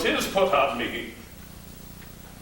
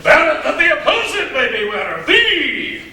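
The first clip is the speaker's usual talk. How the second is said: laughing; 9 semitones higher, 4 dB louder than usual. Acted. Father's advice, laughing.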